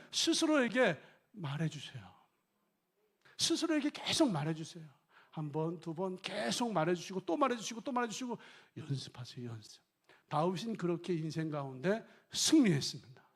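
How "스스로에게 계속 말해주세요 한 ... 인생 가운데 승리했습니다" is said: ordinary talk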